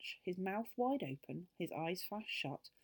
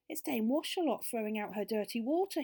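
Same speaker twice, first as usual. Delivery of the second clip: raised, higher storybook yell; yelled warning; 4 semitones higher, 6 dB louder than usual. A narrator's reading. Joe warns the others about dirty water, yelled. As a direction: call out an alarm, not full force. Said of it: "he yelled".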